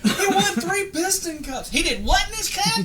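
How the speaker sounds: high, laughing through the line; laughing quote. Retold or imitated. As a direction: giggle out the quote.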